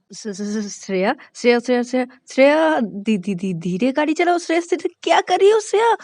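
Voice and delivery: high, loud stammering panic; terrified shriek. Acted. Shruti shrieks at Shreya to stop speeding, terrified. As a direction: shriek at the speeding driver in terror.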